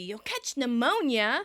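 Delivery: mild mock scolding; slow, lightly scolding warning. Monica scolds Phoebe at the window, mildly mock stern. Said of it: "Monica scolds Phoebe".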